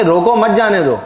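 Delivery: "روکو" stands out, "مت جانے دو" follows as one phrase; pause after روکو. Shown as a demonstration. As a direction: stress "روکو", slight break, then "مت جانے دو" together. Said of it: "آپ اس کو لیں گے".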